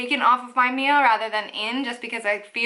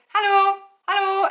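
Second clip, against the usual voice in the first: passing greeting; 9 semitones higher than usual. Retold or imitated. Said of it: "they won't just be like".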